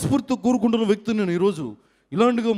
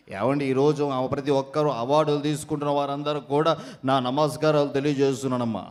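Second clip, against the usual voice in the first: mimicked low voice; 6 semitones lower than usual. Mimic thanks award winners in a low elder's voice. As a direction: lower voice of a dignitary.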